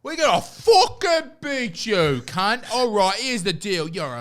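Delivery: high, loud, hammed-up attempt at an Irish accent; muddled Irish accent. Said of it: "I have no idea what accent I'm doing".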